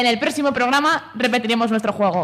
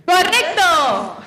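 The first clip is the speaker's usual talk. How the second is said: excited drawn-out announcement; 6 semitones higher, much slower than usual. Real, not acted. Host announces right answer.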